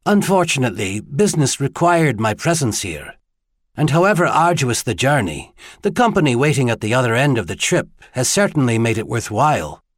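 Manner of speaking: lightly voiced courteous tenor gentleman; a hint of a charming foreigner; gallant visitor. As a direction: flatter politely, with a slight accent.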